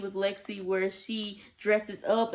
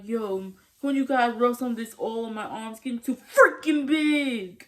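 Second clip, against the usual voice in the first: jock bro voice; 2 semitones higher, 3 dB louder than usual. Retold or imitated. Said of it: "And he's like".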